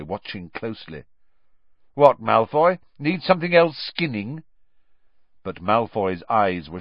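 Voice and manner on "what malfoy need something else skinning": loud, high sarcastic jab; scornful jab. A narrator's reading. Ron snapping sarcastically at eavesdropping Malfoy, loud scorn. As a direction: fire it back with scorn.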